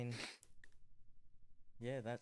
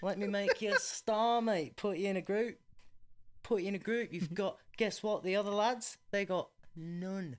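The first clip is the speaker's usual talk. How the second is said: higher, louder mock British accent; Simon Cowell; 8 semitones higher, 5 dB louder than usual. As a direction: pitch it as a pushy British talent scout. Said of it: "I keep losing the accent".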